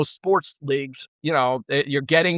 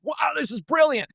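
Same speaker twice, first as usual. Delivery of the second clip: sudden sarcastic wonder; mock amazed praise; 11 semitones higher than usual. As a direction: play the critics gushing, wide-eyed. Critics suddenly praising the strategy.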